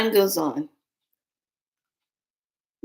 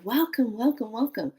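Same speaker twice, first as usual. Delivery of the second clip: higher-pitched, repeated greeting; mock welcoming chorus; 5 semitones higher than usual. The group greets the newcomer, imitated eager welcome.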